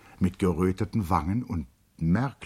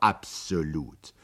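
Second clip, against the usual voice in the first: slow, servile assent; bow and yield, slowly; submissive; 2 semitones lower, slower than usual. A narrator's reading. Servant Mager giving in to Charlotte, slow and servile. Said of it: "versetzte Mager unterwürfig".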